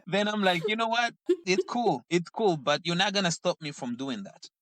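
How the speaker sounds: amused, high and laughing. Real, not acted. Laughing reply to son.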